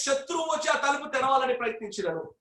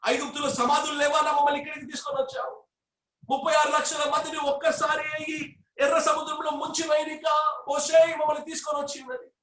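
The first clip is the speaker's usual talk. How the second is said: complaining crowd; 2 semitones higher than usual. Retold or imitated. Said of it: "మోషేతో మాట్లాడుతున్నారు".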